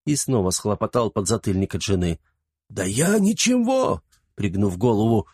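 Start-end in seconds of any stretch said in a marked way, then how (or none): 2.7-4.0 put-on sheepish old servant. A narrator's reading. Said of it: "виновато произнёс Флаппий".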